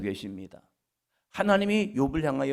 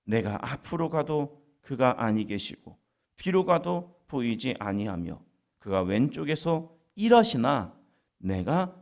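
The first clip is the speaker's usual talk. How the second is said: slow scripture reading; slower than usual. Acted. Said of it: "그래서 이런 표현을 합니다".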